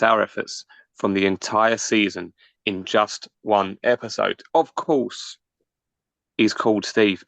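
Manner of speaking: measured, announcer-style introduction; podcast guest intro. Acted. Host introducing the season finale guest, announcer style. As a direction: build up the guest like a show host.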